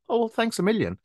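sarcastic thanks. Retold or imitated. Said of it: "And I'm like".

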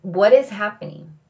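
calm self-talk. Retold or imitated. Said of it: "have a session with myself".

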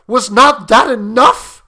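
outraged shout of a question; fierce demand. A narrator's reading. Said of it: "he demanded fiercely".

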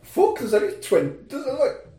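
rushed and rising in alarm, loud by the end; quick worried outburst at the clock; panicked. Retold or imitated. Watching the film, panicking about the ending, rising and loud. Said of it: "And I was like".

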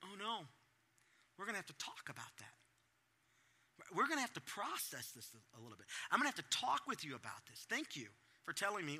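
soft, calm parent voice; steady and kind; mild caring parent; gentle concern. Retold or imitated. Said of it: "attitude towards them".

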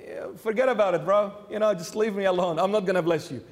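dismissive angel. Acted. Angel brushes Jacob off casually.

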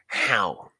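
skeptical. Acted. Naruto doubts Asuma's claim about wind, skeptical. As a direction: question it like you don't buy it. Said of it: "Naruto asked him skeptically".

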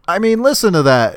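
Squidward voice. Retold or imitated. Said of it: "Squidward quote".

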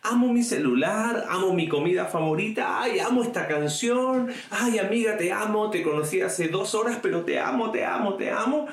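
gushing mock.

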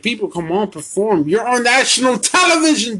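fed-up plea to the wrestlers; exasperated outburst. Real, not acted. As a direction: scold them in exasperation.

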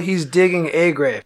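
"a" said as a full, stressed AY. Retold or imitated. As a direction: lean on the article "a". Correcting what he was told.

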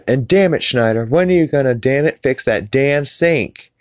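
mock sitcom mother. Sitcom mother hounding Schneider about the sink, high mock exasperation. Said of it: "she's like".

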